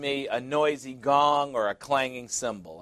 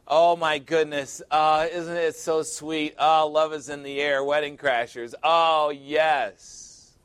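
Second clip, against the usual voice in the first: lightly mocking sentimental gush; gushing wedding guest; 3 dB louder than usual. Preacher mimicking guests at weddings in the goo goo gaga stage, lightly gushing. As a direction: coo over young love, a little louder.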